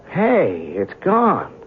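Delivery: jumps up high in surprise; startled. Acted. Reporter realising the craft is gone, high surprised exclaim. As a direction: caught off guard, eyes back on the sky.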